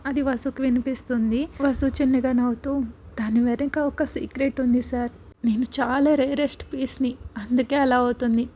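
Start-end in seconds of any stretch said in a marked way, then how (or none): none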